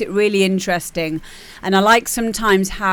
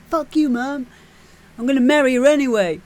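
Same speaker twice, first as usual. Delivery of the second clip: defiant son; 5 semitones higher, faster than usual. Retold or imitated. Son defying his mother.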